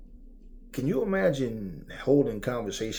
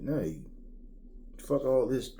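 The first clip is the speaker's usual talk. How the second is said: ordinary delivery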